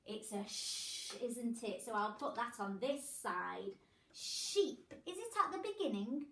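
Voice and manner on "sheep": Sheep with a long hissed shh start; stretched sh. Shown as a demonstration. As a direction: lean on the sh in Sheep. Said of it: "Can you hear a ch or a sh".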